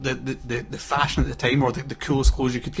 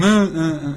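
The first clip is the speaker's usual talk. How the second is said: mock dopey "uh" noises, higher; imitated daft noises; 4 semitones higher, 5 dB louder than usual. Telling friends about the comedian's silly clips, imitated daft noises. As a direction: daft repeated grunts, imitating a clip. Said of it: "these little clips of him going".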